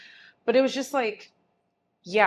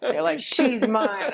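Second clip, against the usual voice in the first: laughing mock creep; 4 semitones higher, 5 dB louder, slower than usual. Mocking creepy fans, laughing.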